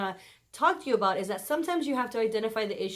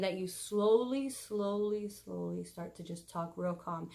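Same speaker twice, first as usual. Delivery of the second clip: softer, slower, winding down; calm and slow; 3 semitones lower, 7 dB quieter than usual. Shown as a demonstration. Advising spouses, softening the voice to calm. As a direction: bring the voice down gently. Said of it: "talk really calm and really slow".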